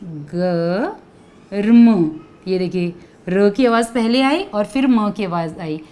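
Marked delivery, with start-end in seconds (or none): 0.0-2.2 गर्म stretched very slowly; "गर्म" धीरे धीरे, खींचकर; drawn-out model word. Shown as a demonstration. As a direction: slowly spell out गर्म with a light र. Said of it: "देखिए किस प्रकार लगता है ये".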